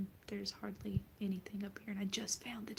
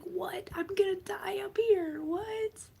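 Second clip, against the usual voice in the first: higher, louder whispered outburst; mock outrage; 12 semitones higher, 9 dB louder, much slower than usual. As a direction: act out your own horrified shock. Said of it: "and I'm like".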